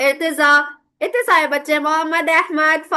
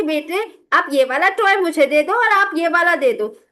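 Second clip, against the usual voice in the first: kind coaxing. Shown as a demonstration. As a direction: speak lovingly to the little one. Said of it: "आप प्यार से उसे कहेंगे".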